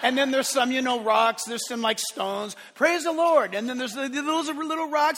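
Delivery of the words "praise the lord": stones' praise. Pretend.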